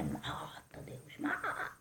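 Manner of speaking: whispered, soft and hissed mock prayer; mock vengeful whisper. Preacher mocking the wrong prayer, in a hushed whisper. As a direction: breathe it like a spiteful secret prayer.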